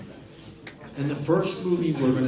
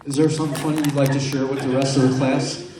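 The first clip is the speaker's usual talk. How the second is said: scolding teacher; 3 semitones higher than usual. Pretend. Teacher scolds a student who keeps laughing. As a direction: threaten the principal's office.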